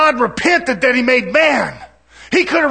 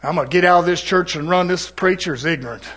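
lower, softer scoffing listener; mock offended listener; 6 semitones lower, 4 dB quieter than usual. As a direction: play the churchgoer ready to run. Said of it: "And you say".

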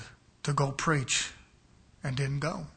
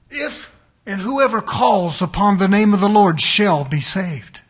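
quoting scripture; 10 dB louder than usual. Acted. Preacher quoting what God says, loud and declaiming. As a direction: proclaim the verse loud and full. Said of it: "He says".

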